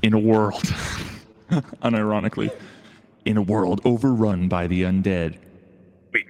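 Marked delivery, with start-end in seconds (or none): 0.0-0.6 horror trailer voice. Pretend. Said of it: "stock trailer voiceover". 3.2-5.4 horror trailer voice. Pretend. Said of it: "stock trailer voiceover".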